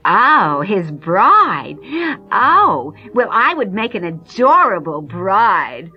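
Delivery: vain stepsister. Acted. Stepsister dreaming of being bride.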